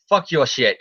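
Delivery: lightly voiced comic villain; a hint of cartoon villain, little change in pitch; Green Goblin. Goblin to Spider-Man during the fight, lightly voiced villain. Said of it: "in the Goblin voice".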